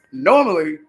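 normally said with a laugh on it. Real, not acted. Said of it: "laughs normally".

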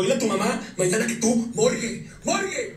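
mock slurred call of morgue, pitch soaring on the last one; imitating drunk Daniel. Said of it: "Así me dijo el güey". (imitando a Daniel borracho gritando morgue)

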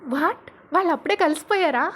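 excited, rising question. A narrator's reading. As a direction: ask it thrilled, voice lifting. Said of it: "అని మను అడుగుతాడు ఎగ్జైటెడ్గా".

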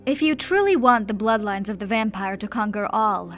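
chained duke shouting his defiance at the emperor; defiant shout. Acted. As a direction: shout the heresy at the throne. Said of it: "shouted the Duke".

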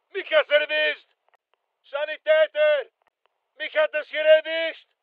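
high-pitched combat distress call; urgent call for help. Acted. Hit soldier calls for medic.

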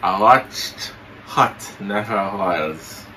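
talking with mouth held open; words through a propped-open mouth. Pretend. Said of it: "you say you're not pronounce good".

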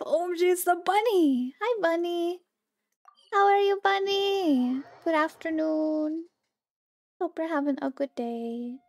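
high sweet voice for a pet; cute baby talk. Acted. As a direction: coo at the bunny. Greeting cute bunny pet.

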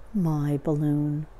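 slow, subdued donkey voice; dejected Eeyore. Acted. Eeyore learns his balloon burst, slow and dejected. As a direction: say it slowly, taking in the loss. Eeyore takes in bad news.

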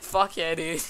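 re-quote the dude-bro line; playful imitation of a meme line; imitating the video guy. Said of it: "It's the way he says it".

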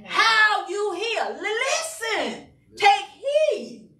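slow, high, breaking cry; impassioned cry. Real, not acted. Preacher urges the church to listen, crying out. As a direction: plead it out slowly, voice straining high.

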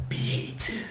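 breathy whispered name; mysterious voice. Shown as a demonstration. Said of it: "Eu falo seu nome com essa voz".

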